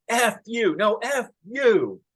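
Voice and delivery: put-on high, brash New York accent cursing; two angry New York drivers yelling in a thick accent. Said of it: "in this thick New York accent".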